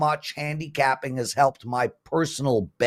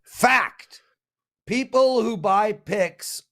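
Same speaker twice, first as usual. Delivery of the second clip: emphatic, raised-pitch readout; mock proclamation; 4 semitones higher, slower than usual. Host quoting a listener's chat claim, mock-emphatic. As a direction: declare it with exaggerated certainty.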